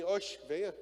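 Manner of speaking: a light northeastern Brazilian accent on "Oxe, venha"; easygoing northeastern Brazilian Jesus. Shown as a demonstration. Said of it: "Agora eu falei igual o Felipe, nordestino". (sotaque nordestino leve, imitando o pastor Felipe)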